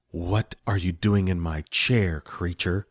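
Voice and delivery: low, slow contemptuous sorceress; spat. Acted. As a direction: spit the words at the goblin. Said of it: "she spat at Spleef".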